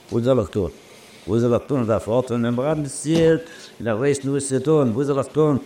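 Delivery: high, rising cry of helplessness; retold desperate plea. Storyteller retells crying out for what to do, desperate plea.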